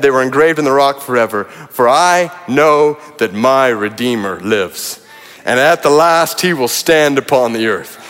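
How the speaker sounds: preacher reading Job's hope to the congregation; scripture reading. Acted. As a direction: proclaim it like a triumphant verse. Reads Job's declaration.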